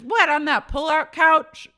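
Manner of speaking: high, loud scoffing; imitating Brandy scoffing at the bed; mock Brandy. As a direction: sneer at the couch. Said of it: "She goes".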